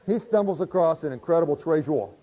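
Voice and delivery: talking through a chuckle; laughing. Real, not acted. Preacher retelling the parable, still chuckling. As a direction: let the laugh carry into the words.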